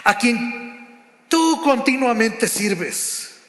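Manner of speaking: "a quien tú continuamente sirves" slowly, with a mild sad weight. Acted. The king to Daniel in the den, slow, touch of sadness. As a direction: let the king's line sink, unhurried and sorrowful. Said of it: "con voz triste".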